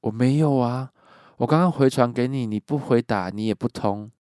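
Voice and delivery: mildly tense quoted voice; nervous. Retold or imitated. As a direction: retell his panicky denial. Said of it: "他语气非常紧张说".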